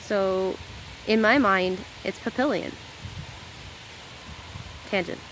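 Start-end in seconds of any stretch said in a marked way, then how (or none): 2.2-2.7 papillion with a clear English L; American pronunciation. Shown as a demonstration. American explaining her own name, papillion with an L sound. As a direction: say papillion with the double L as an L. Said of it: "we just say it as the L sound".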